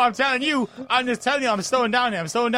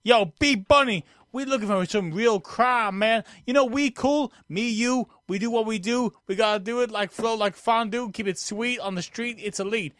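street voice. Acted. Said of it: "You doing your street voice?".

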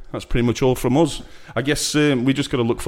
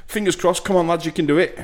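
excited cheer; 9 semitones higher than usual. Real, not acted. Cheering the team on.

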